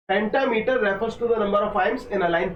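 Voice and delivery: very slow, careful textbook reading; slow dictation reading. Acted. Teacher dictating exam notes slowly to students. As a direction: lay each phrase down for students to copy.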